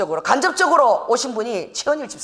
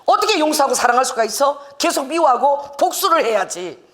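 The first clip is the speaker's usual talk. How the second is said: acted protest, pitched higher; indignant objection; 4 semitones higher than usual. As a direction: object as people who think forgiving is wrong. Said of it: "막 그게 옳지 않다고 생각하는 거야".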